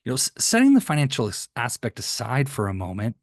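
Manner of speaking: concern for them in the voice; caring tone. Shown as a demonstration. Salesman to hesitant client, gently concerned. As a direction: sound like you truly care about their goals. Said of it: "see my concern for them?".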